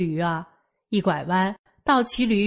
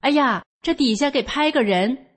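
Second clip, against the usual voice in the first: higher-pitched alarmed exclamation, mildly acted; a touch of alarm, voice raised in pitch; frightened passerby; 5 semitones higher than usual. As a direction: imitate a startled onlooker. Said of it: "走道儿的都吓坏了".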